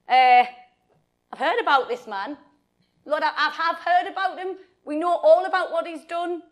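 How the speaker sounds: loud, halting protest; lightly hammed-up reluctance, stalling with an uh; reluctant objection. Ananias objecting to God about Saul, mildly reluctant protest.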